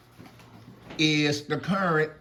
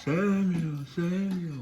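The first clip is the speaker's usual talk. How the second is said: lightly voiced God calling, fading softer; 5 semitones higher, 4 dB quieter, slower than usual. God calling Samuel again at night. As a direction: call out slowly, trailing off.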